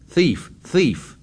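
shouting. Acted. Ralph shouts insult.

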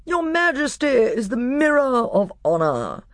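shrill, high, gallant mouse; Reepicheep. A narrator's reading. Mouse petitioning the king to be marshal, shrill and proud. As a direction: pipe it with proud formality. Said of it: "a shrill voice".

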